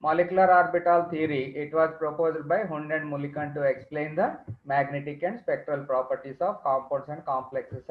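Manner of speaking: dictating notes very slowly; slow dictation. Acted. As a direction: read it out for students to write. Reads definition slowly as notes.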